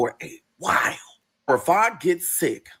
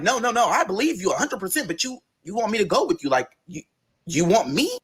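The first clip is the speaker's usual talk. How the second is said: incredulous; 5 semitones higher than usual. Retold or imitated. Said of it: "why are you saying it like that".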